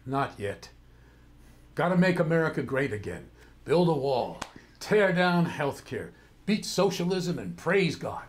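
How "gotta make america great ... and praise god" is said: cynical. Acted. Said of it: "a little cynicism in your voice".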